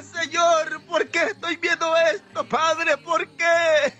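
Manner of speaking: retold anguished cry to God; tearful plea. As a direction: plead as if weeping, in a preacher's voice. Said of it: "Y yo lloraba y le decía". (súplica llorosa recreada)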